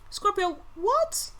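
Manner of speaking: high, slow and stretched Scorpio, what?; mock outraged Scorpio. Scorpio reader playfully voicing the offended sign, high and slow.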